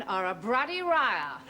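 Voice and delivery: mock Japanese accent, L's swapped for R's. Wife mocking her husband in a mock Japanese accent. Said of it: "as they would say in Japan".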